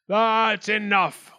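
high, loud, drawn-out bawl. A narrator's reading. Wildcat silences the noisy acorns, loud high bawl. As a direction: bawl to stop a racket. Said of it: "Wildcat bawled".

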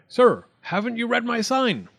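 high, loud indignant question; shouted. A narrator's reading. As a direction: call out a challenge to an unwanted caller. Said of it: "Doctor DeSoto shouted".

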